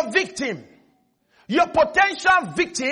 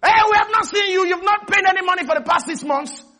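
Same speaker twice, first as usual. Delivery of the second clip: higher, louder telling-off; scolding bank official; 6 semitones higher, 4 dB louder than usual. Retold or imitated. Preacher acting the bank telling off a debtor, loud and stern.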